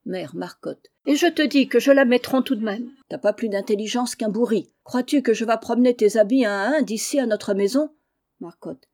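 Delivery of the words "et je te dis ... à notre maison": loud shrill scolding of her husband; angry shouting. Acted. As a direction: yell back at him, fed up. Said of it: "criant à qui mieux mieux". (femme qui crie contre son mari)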